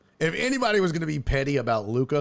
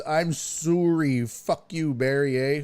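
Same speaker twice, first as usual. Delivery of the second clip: hammed-up Canadian "sorry", stretched out; Canadian accent, raised and drawn out; mock Canadian accent; 2 semitones higher, slower than usual. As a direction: read it as a cartoon Canadian. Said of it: "There's no way he talks like that. He's Canadian".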